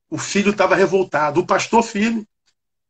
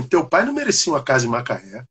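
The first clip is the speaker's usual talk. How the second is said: a lightly voiced old man, calm and lower; measured, lower verdict from the old stranger; old man in white; 4 semitones lower than usual. Dreamer voices old man's calm reply, lightly lowered. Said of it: "o cara diz assim".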